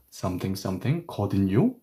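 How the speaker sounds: 거든요 with the tone going up; rising tune. Shown as a demonstration. Teacher demonstrates to students rising tone on 거든요. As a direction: lift the pitch on 거든요. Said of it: "then the tone goes up".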